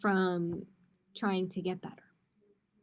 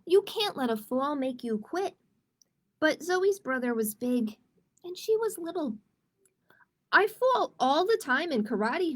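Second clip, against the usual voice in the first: put-on lively storybook reading for kids; reading to children. A narrator's reading. Teacher reading a picture book to kids, animated storytelling. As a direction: read it like story time with children.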